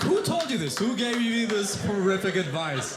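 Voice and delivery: a touch of outrage; shocked question. Retold or imitated. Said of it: "I was like".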